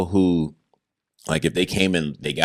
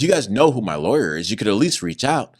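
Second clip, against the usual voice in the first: railing; 5 semitones higher, 4 dB louder than usual. Retold or imitated. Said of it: "I'm just railing".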